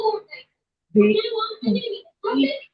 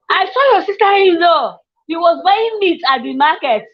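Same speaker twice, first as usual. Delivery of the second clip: mock gossip; 6 semitones higher than usual. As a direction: chirp it like a nosy neighbour bringing news. Mimicking a gossip about in-laws.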